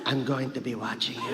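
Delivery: low, ominous grandmother; Lola Tinay. Retold or imitated. Grandmother promises to watch her sleeping grandson, low and ominous. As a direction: drop low for a mock-creepy warning. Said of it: "She's like".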